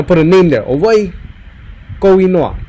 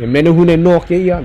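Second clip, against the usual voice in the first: the word no held long and firm; stress on no. Shown as a demonstration. Teacher explaining emphasis to class, no stressed. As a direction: push the no to mean really. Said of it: "That's what that no emphasizes".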